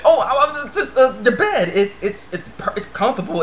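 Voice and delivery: high, loud stammer settling down; acted fluster. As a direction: scramble for an excuse, caught red-handed, hammed-up. Boy caught sniffing her bed.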